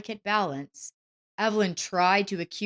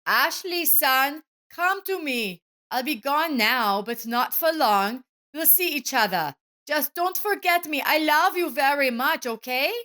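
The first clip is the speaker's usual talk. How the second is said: tender father; 8 semitones higher, 4 dB louder than usual. A narrator's reading. Father's farewell to son.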